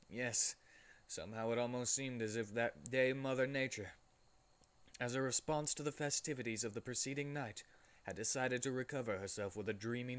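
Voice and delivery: reading with a mouthful of cake; mouth full. Real, not acted. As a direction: talk through a bite of cake. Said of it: "I'm gonna do this with my mouth full".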